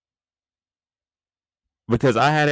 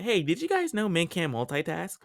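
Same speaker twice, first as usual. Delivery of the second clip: mock quote; 5 semitones higher than usual. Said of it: "why you say it like that".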